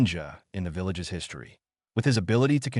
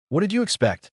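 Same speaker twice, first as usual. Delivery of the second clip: mocking; 9 semitones higher, 3 dB louder than usual. A narrator's reading. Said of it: "the demon's voice mocked in reply".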